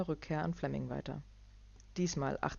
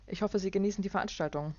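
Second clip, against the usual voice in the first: pinched assistant; 5 semitones higher, faster than usual. Acted. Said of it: "fragte Fleming verkniffen".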